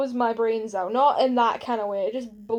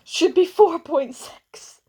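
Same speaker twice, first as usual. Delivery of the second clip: slow, louder, deliberate pronouncement; emphatic verdict; 5 semitones higher, 7 dB louder, much slower than usual. Real, not acted. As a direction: drag out the verdict slowly. Mock verdict on the rating.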